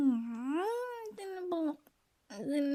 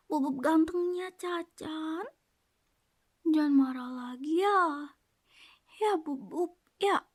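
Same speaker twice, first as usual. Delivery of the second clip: sweet coaxing repeat. Shown as a demonstration. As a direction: coax him gently, half whispered. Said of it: "sekali lagi aja ya". (membujuk manja, pelan dan berbisik)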